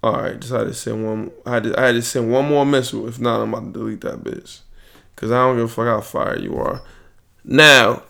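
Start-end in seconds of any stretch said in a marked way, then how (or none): 0.0-6.8 low, very soft, near-whispered; under the breath, much softer and lower; quiet aside. Real, not acted. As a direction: drop the voice way down, talking to yourself. Private aside while messaging a woman.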